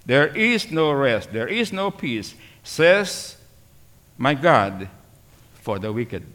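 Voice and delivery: slow, measured verse, fading at the end; scripture reading. Acted. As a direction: let "for the wicked" drop away.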